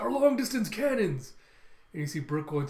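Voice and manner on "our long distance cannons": high, loud cry of dismay; panicked mock shout, pitched up; acted dismay. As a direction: wail it out as the weapons are lost. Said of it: "It's like".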